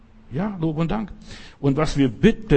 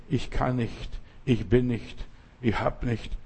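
kleinlautes Klagen; 5 dB quieter than usual. Acted. Macht das dumme Gerede nach.

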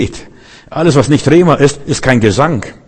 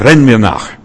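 Renn snapped out louder; a driver ordering you to run; mock demanding order, louder; pushy command; 5 dB louder than usual. Shown as a demonstration. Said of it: "Er zwingt nicht".

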